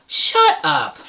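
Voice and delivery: high whispered disbelief; breathless disbelief. Real, not acted. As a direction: gasp it out in awe.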